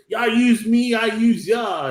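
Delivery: bratty outburst. Retold or imitated. Brat bursting out at his parents, high mock yell. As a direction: storm out yelling it like a sulky kid. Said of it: "busts out the room".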